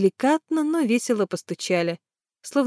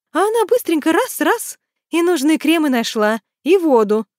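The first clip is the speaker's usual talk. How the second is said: higher, louder excited Tanya; 8 semitones higher, 4 dB louder than usual. A narrator's reading. Tanya tells the men about the shop, excited and higher. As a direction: rattle it off eagerly.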